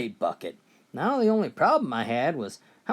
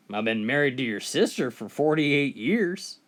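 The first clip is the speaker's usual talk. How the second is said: calm. Acted. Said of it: "the old man calmly looked".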